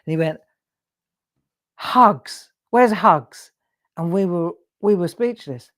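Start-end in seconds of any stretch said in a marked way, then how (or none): 1.8-3.5 posh father. Retold or imitated. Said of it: "they were quite posh".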